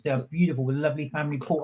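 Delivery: talking through a mouthful; words round a bite of food; mouth full. Real, not acted. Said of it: "talk with my mouth full".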